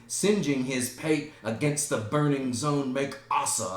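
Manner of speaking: loud, scornful declamation; theatrical rant. Acted. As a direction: rant to outdo a rival mourner. Hamlet outdoes Laertes's rant.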